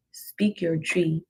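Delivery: ordinary talk, nothing marked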